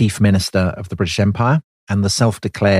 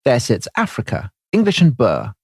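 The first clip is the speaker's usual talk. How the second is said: grand oration; 2 semitones higher than usual. Retold or imitated. Prime minister showing De Valera the empire, proud oration. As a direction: present it like showing off a prize. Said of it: "David said to De Valera".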